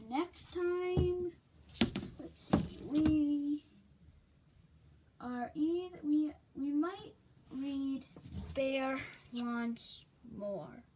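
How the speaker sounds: excited announcing. Real, not acted. Reader hyping next book to viewers, eager.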